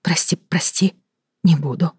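quick whispered sorry; hushed rushed apology; hasty apology. Acted. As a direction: hurry to apologise under your breath. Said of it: "поспешно произнесла она".

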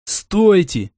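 urgent high-pitched cry; yelling. A narrator's reading. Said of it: "что есть мочи, заорал я".

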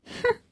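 short, soft scornful huff; a quiet sneering "hmph" through the nose; cold scoff. A narrator's reading. Wife scoffs at her husband's retort, cold soft huff. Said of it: "安叶冷笑".

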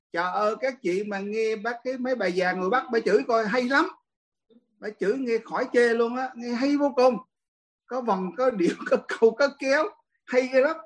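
retold admiration. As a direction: rave as if recommending a great performance. Kể lời ông Khê khen bà chửi. (giọng kể lại, tấm tắc khen)

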